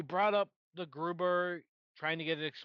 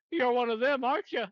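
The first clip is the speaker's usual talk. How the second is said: high, loud mocking accusation; mock yell; 8 semitones higher, 7 dB louder than usual. Host mocks the unconvincing accent, hammed-up yell. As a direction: yell it like a badly acted movie villain. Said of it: "if someone yelled at me".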